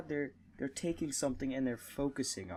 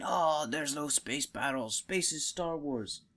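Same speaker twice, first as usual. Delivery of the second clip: slow mocking complaint voice; mocking whiny complainers; 2 semitones higher, slower than usual. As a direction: drag it out like a whiny fan. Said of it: "all these people saying".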